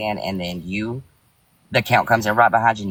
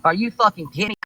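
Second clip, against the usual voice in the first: higher and higher, angry accusing; furious rant; 6 semitones higher than usual. Real, not acted. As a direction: tear into him, rising pitch.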